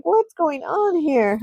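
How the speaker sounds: high, slow, bewildered ghost voice; stunned ghost asking what's happening, slow and high; shocked ghost. Pretend. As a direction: drag it out, baffled and high. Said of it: "He's like".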